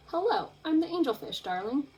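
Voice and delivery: a hint of a preening diva; lightly voiced vain fish, darling; mildly haughty showing-off angelfish.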